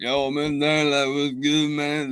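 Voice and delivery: slow, easy, drawn-out dude voice. Retelling how a student talked in class: imitating Ghetto Boomhauer voice. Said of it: "he sounded like, like, uh, Ghetto Boomhauer".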